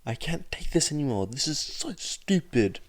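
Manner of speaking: high, fast, bitter fury; venomous outburst. A narrator's reading. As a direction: spit it with venom. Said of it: "said with such incredible amount of venom".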